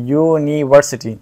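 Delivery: यूनिवर्सिटी said slowly, starting with a clear "yu" sound; slow demo pronunciation. Shown as a demonstration. Teacher to students, showing the "yu" sound slowly. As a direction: draw out यूनिवर्सिटी so the "ye" sound at the start comes through. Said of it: "ये की आवाज़ निकलती है".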